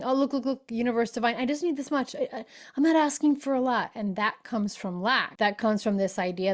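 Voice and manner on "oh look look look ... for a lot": higher, meek pleading voice; meek humble plea. Retold or imitated. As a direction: ask for very little, timidly. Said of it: "I thought I was being humble and saying".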